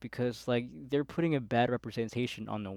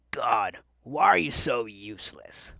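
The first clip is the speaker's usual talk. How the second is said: mock aggressive scolding, slightly louder; 4 dB louder than usual. Manager to a new worker asking for register help, mock aggressive. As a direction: imitate an exasperated boss snapping at staff.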